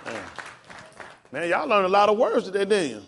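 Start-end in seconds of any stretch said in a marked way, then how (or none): 1.3-3.0 much louder and higher, fast hype for the class; rally them like a preacher; excited praise. Real, not acted. Teacher hyping up the class over their new words, excited.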